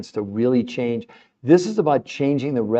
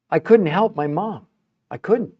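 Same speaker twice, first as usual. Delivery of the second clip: emotional; 6 semitones higher than usual. Real, not acted. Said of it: "I know I get really emotional".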